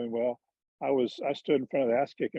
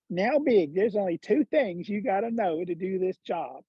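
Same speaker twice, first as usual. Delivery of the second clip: put-on higher-pitched Georgia hick accent; 4 semitones higher, slower than usual. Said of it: "he's got this hick accent".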